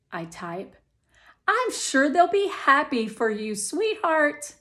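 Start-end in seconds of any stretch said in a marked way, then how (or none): 1.5-4.5 higher, coaxing mother voice; a hint of a soothing mom; reassuring mom.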